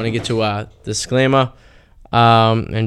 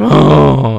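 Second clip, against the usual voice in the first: mock defense yell; 4 dB louder than usual. DJ showing listeners the right yell, mock belly oh. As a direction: push the oh from the belly. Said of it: "you scream".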